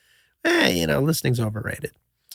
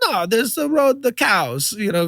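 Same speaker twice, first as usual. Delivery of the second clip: mock Swiss accent; 3 semitones higher, slower than usual. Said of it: "what is this accent I'm doing".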